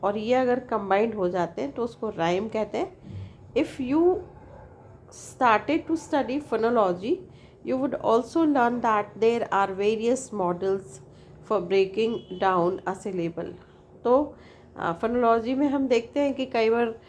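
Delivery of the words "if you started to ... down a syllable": slow, careful reading of a definition; slow textbook reading. Acted. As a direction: read it out word by word for the class. Reads definition from the text.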